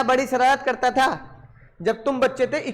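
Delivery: normal talking voice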